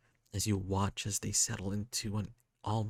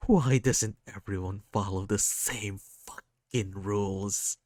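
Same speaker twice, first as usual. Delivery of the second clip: rising anger, louder, swearing; frustrated outburst; 6 dB louder than usual. Acted. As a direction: vent the unfairness hard. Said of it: "I have terrible temper".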